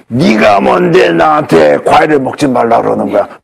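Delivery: slow, lightly growled monster voice; a retold patient turning into a mild mock monster; 괴물 목소리. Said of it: "목소리가 변해. 괴물 목소리로".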